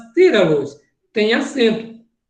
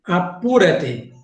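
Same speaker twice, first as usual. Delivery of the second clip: slow model; 4 semitones lower, slower than usual. Shown as a demonstration. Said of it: "é o apressa-te".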